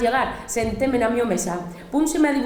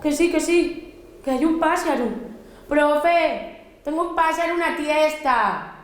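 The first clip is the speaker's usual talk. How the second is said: insistente; 6 semitones higher, slower than usual. Acted. Niña insiste a la profe.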